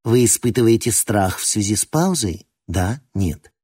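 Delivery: metallic clipped machine voice; clipped robot voice. Acted. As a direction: chop each word like a machine. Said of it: "снова отчеканила".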